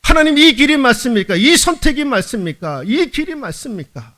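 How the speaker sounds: fervent preacher's prayer question; earnest asking. Pretend. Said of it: "물어봐야 되는 거예요".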